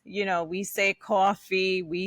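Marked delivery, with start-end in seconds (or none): 0.9-1.8 coffee in a Bronx Latina accent. Shown as a demonstration. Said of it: "Latina from the Bronx".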